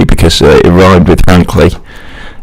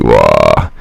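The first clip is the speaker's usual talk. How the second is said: low mock "wah" noise; imitated drum and bass noise; 4 dB quieter than usual. Presenter recalls awful boat party music, low imitated wah. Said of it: "it's just like".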